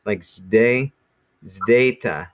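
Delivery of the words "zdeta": "zdeta" with z and d run together. Shown as a demonstration. Teacher showing the class how to say "zdeta". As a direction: say "zdeta", a d right after the z. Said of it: "like, a z and a d back to back".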